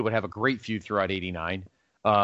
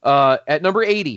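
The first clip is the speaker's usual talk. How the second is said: louder, punchy newscaster opener; 4 semitones higher, 6 dB louder than usual. Shown as a demonstration. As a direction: announce it like the evening news. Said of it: "you get your little newscaster".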